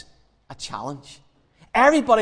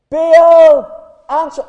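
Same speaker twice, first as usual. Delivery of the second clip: loud, high summons; shouting; 11 semitones higher, 14 dB louder, much slower than usual. Acted. Prophets trying Baal once more, shouting. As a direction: holler up to an absent god. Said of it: "and they shout".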